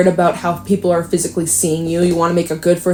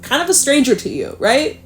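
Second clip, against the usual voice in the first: mock self-surprise; 5 semitones higher than usual. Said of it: "I say that and I'm like".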